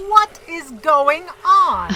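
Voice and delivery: high, loud frightened cry, slowed; a terrified outburst on arrival in the underworld; panicked scream. Acted. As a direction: shriek it in terror. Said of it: "I do enjoy the screaming".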